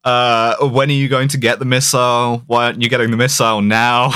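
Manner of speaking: exasperated office boss badgering the agent; mock nagging. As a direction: pester like an impatient boss. Mocking nagging about missile.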